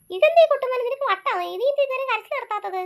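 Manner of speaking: loud, high exasperated scold. Acted. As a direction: snap at the crying boy. Mother scolds crying boy.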